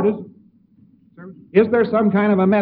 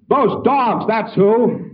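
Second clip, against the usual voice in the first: angry man; 5 semitones higher, much slower than usual. Retold or imitated. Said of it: "And he says".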